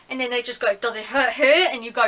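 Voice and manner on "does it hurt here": louder, pressing repeat of the question; insist, asking yet again. Retold or imitated. Dentist pressing the patient louder with a third ask.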